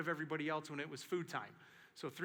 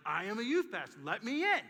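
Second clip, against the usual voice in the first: insistent demand; 5 semitones higher, 6 dB louder than usual. Retold or imitated.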